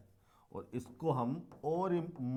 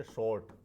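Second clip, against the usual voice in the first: शॉर्ट as one single beat; 2 semitones lower than usual. Shown as a demonstration. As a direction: say शॉर्ट in one unbroken syllable. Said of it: "एक ही बार में बोल दिया". (शॉर्ट एक ही बार में)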